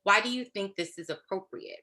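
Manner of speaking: evenly measured question to a colleague; a touch of deliberate monotone; mild monotone. Acted. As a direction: call it out with restrained, level delivery. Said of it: "gonna be very monotone and say".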